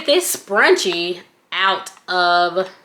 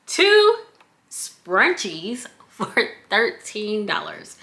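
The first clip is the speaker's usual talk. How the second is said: laughing; slower than usual. Real, not acted. Mocking the small scrunchies.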